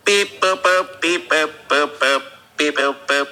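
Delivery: robotic alien beep boops. Pretend. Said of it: "can you just give me some beep boops".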